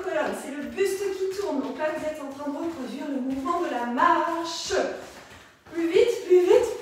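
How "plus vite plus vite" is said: loud, raised workout call; energetic shouted encouragement; urging coach. Real, not acted. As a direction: push the class harder. Coach pushing the pace.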